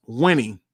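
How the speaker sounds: Winning said slowly as its own word; emphasis on winning. Shown as a demonstration. Host stressing what success means, emphatic Winning. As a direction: lean on Winning. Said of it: "See the emphasis on the word winning?".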